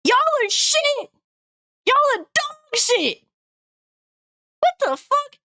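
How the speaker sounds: high, slow, dramatic trailer voice. Pretend. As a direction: drag it out like a movie trailer. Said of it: "my trailer voice was better than yours".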